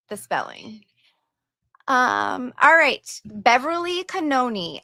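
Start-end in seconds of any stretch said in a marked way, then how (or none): 0.1-0.8 whispering. Real, not acted. Reading donation comment quietly.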